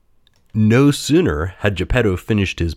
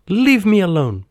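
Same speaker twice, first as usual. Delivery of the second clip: high-pitched puppet protest; acted bratty outburst; petulant cry; 13 semitones higher, 4 dB louder than usual. A narrator's reading. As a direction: cry out, fed up. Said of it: "Pinocchio cried".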